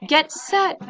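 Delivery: loud, high coach's call; bellowing coach. A narrator's reading. Coach calling the start of the race, loud bellow. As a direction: bellow it across the pool. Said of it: "bellowed the coach".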